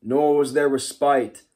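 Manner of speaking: put-on measured, solemn reading of an old epic, slow; slow story reading. Teacher reading Beowulf to his class, slow solemn story narration. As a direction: read it like an ancient saga, pausing often.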